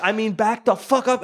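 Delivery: hammed-up angry command; imitated yelling. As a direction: act out a cop's forceful warning. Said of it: "he's just yelling in this guy's face".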